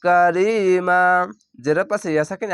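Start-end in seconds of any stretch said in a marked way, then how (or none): 0.0-1.0 কারিমা chanted, stretch the last আ one beat and stop; recitation pause. Shown as a demonstration. Teacher showing where to stop at the ayah. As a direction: hold the final মা of কারিমা, then stop. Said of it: "এক আলিফ টেনে থেমে যাবেন".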